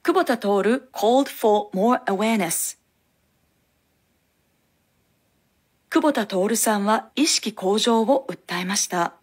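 slow, measured bilingual model reading; model reading for repetition. Shown as a demonstration. Teacher giving learners lines to repeat, slow model reading. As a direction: read each phrase slowly for learners to echo.

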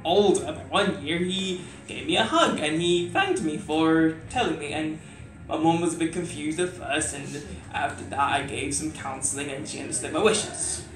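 letter read as spoken word; poem recitation. Acted. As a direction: recite like a heartfelt open letter.

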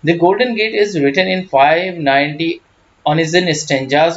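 very slow, measured reading of English notes; slow reading aloud. Acted. Teacher dictates English notes, very slow. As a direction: spell out each word for students.

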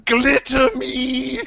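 high, drawn-out laughing call; playful calling out. Acted. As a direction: stretch out a comic plea. Player calls for glitter, laughing.

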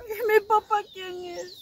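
asking through tears; tearful plea for her father; crying question. Acted. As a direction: let the question break into a sob. Daughter learns she was adopted.

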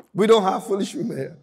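said through a laugh; laughing joke. Real, not acted. Preacher teasing the women with a laugh. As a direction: laugh as you repeat it to the church. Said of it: "repeated with laugh".

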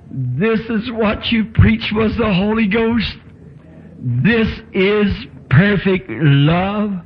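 measured, emphatic voice from above; solemn heavenly voice. Retold or imitated. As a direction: declare it solemnly, drawing out each word. Heavenly voice declares a truth.

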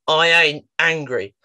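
put-on a teen who will not budge, said slowly; slow stubborn denial. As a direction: lean on each word like a wall going up. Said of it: "He went".

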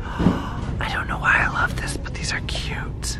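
excited whisper over cute decor; hushed whisper, barely voiced. Real, not acted. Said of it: "Why am I whispering?".

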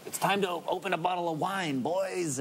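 put-on a playful stab at a Wisconsin accent. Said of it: "doing a bad Wisconsin accent right now".

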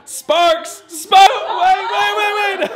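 high, excited laughing yells; excited squeal. Real, not acted. Excited reaction to the kiss test.

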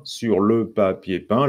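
slow, separated syllables. Shown as a demonstration. Teacher showing there is no elision, syllable by syllable. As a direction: spell out each syllable slowly. Slows lyric to count syllables.

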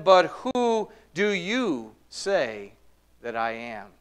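slow question leaning on "you"; stress on "you". Retold or imitated. Jesus putting the question to his disciples, stress on "you". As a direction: draw the line out around "you", falling away after it. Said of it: "hear him emphasizing the word".

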